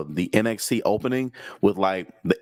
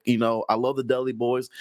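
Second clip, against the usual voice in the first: stuffy nose. Real, not acted. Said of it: "if I'm a little stuffy".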